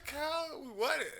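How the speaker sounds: high, imitated kid; lightly voiced son. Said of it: "He said".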